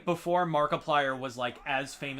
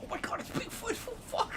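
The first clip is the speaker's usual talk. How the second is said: high, squealing nasal fanboy; nasally voice; 4 dB quieter than usual. Pretend. Role-playing finding Bigfoot with a friend, nasally voice. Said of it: "I can't do the nasally voice".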